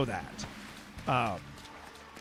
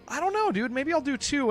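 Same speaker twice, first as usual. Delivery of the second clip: inner voice; 9 semitones higher than usual. Retold or imitated. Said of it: "and then I was like".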